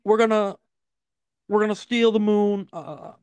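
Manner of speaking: halting, measured presidential cadence; Obama impression. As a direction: pause between phrases like a president. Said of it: "this is the Obama impression".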